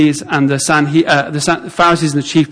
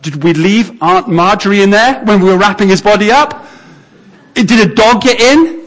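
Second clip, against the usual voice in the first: baffled onlooker; 3 semitones higher than usual. Acted. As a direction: puzzle aloud with pitch climbing. Imagined onlooker baffled by movement in grave.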